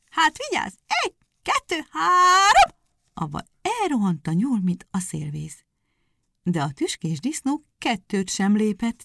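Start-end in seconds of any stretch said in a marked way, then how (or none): 0.1-2.8 count-off. Acted. Hare counts off the race.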